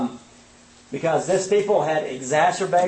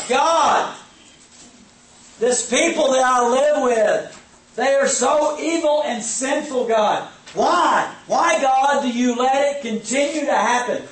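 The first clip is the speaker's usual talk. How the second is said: pleading, raised-pitch complaint to God; whining prayer; 5 semitones higher than usual. Retold or imitated. Habakkuk crying out to God over his people. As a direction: plead with God, voice lifted and aggrieved.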